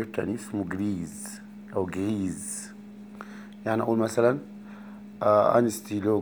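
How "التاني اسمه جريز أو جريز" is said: whispered aside. Real, not acted. Teacher whispers a quick aside about the feminine. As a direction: whisper it under the breath. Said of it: "aside on feminine form".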